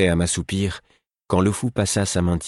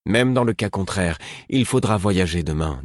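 implacable; 3 semitones higher than usual. Acted.

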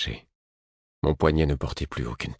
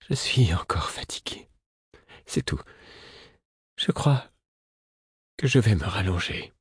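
small tired voice; 3 semitones higher than usual. A narrator's reading. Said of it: "d'une petite voix tremblante".

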